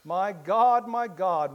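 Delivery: a pleading, despairing call to God; anguished cry. A narrator's reading. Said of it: "the anguish and despair of his last words as he cried".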